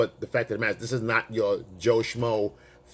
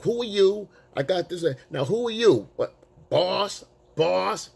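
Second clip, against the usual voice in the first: mimicking her loud challenge, higher; mock demanding, pitched up on each question; 7 semitones higher than usual. Woman confronting the man in the boss hat, mock loud challenge. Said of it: "she was saying it so loud".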